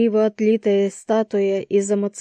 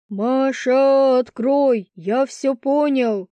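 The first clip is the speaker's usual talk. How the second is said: mild yell; 4 semitones higher, much slower than usual. A narrator's reading. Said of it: "кто-то орал".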